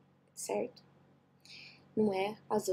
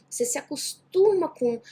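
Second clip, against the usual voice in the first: emphatic; 5 semitones higher, 5 dB louder than usual. Shown as a demonstration. Teacher repeats key point.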